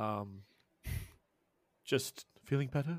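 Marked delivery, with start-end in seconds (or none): 2.4-3.0 timid, nervous, soft muttered mumble. Voicing a character who walks past a player: mumbling nervously. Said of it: "you hear Edgar mumble".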